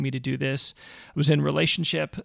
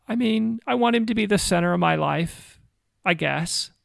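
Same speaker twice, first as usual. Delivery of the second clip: mildly hesitant retold answer, higher at the start; imitating hesitation; 4 semitones higher than usual. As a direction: quote her as unsure, tailing into doubt. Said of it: "there was clear hesitation and anxiety".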